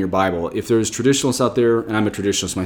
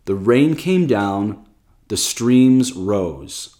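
drawn-out, deliberate verse reading; very slow scripture quote; much slower than usual. Shown as a demonstration. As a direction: stretch out each word of the verse. Reads NIV verse.

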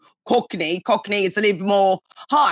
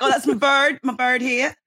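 Cockney lad, half laughing; Cockney accent; 3 semitones higher than usual. Shown as a demonstration. Guest giving example of slang, amused Cockney accent. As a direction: play a Cockney bloke, amused. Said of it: "You'd be like".

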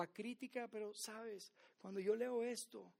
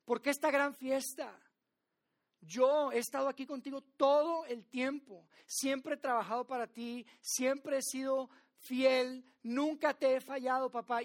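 raised, indignant complaint to his father; angry older brother; 2 semitones higher, 7 dB louder than usual. Retold or imitated. Resentful son confronting his father over the party, raised and indignant. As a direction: protest hotly, feeling cheated. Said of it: "Y se enoja y le dice".

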